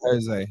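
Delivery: Jose with an "h" first sound; Spanish-style pronunciation. Shown as a demonstration. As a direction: say Jose as "ho-ZAY". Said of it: "It's better as Jose".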